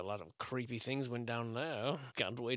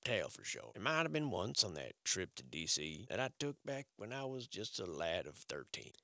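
limerick recital. Acted. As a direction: recite it like a silly poem. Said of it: "I said that to rhyme".

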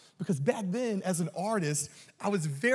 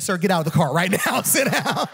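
stern cop order; 7 dB louder than usual. Retold or imitated. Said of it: "He said".

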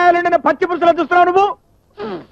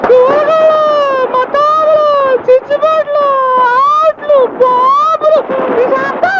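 high squeaky festival yells, much higher; squeaky shout; 12 semitones higher, much slower than usual. Retold or imitated. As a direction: shriek each item like a rubber-band-tight throat. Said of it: "ఆ కీచుడు గొంతుకే ఒకటి రా". (కీచు గొంతుతో అరుపులు)

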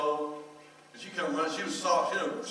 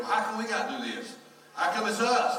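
put-on whiny kids; 7 semitones higher, 5 dB louder than usual. Kids complaining, voiced by father.

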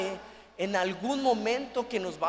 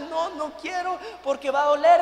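higher, louder mock whiny shout; shouted refusal; 5 semitones higher, 5 dB louder than usual. Wife refusing the injection again, higher mock shout. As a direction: yell it like a stubborn patient.

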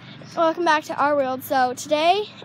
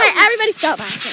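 hurried call; 3 semitones higher, 4 dB louder, much faster than usual. Real, not acted. Calling kids to stop.

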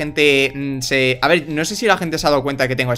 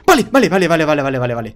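1 excited to calm; faster than usual. Real, not acted. Calming himself after a tense moment.

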